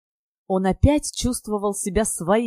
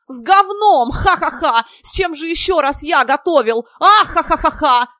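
much higher, loud, guffawing through the words; shaking with laughter; 9 semitones higher, 8 dB louder than usual. Acted. Ivan answers Kirill's question, loud and guffawing. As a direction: roar the joke and crack up. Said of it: "отвечал сотрясаемый смехом Иван".

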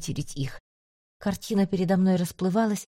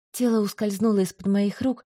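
usual speaking voice

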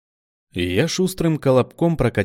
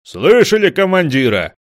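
higher, louder; urgent; 9 semitones higher, 10 dB louder than usual. A narrator's reading. Pole urging them to listen, loud. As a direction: urge them on.

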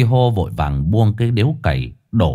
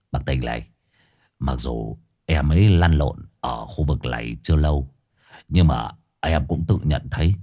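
put-on slurred drunk voice; 7 semitones lower than usual. A narrator's reading. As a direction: slur the flattery lazily. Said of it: "giọng lè nhè".

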